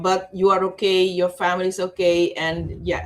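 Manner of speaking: ordinary talk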